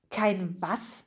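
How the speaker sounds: soft, hushed question; whispered. A narrator's reading. Bertram asks the others about a word, whispering. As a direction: drop the volume for a puzzled aside. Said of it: "flüsterte Bertram den anderen zu".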